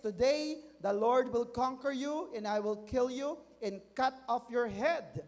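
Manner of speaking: high-pitched declamation, mildly forceful; David's declaration. Acted. David declaring victory over Goliath, mildly forceful declaration. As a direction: declare it firmly, stretching the final threat. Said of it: "nagsimula siyang magdeklara".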